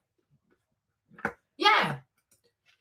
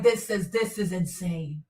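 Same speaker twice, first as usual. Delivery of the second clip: awed hush; 3 semitones lower, 5 dB quieter than usual. Retold or imitated. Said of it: "I'm like".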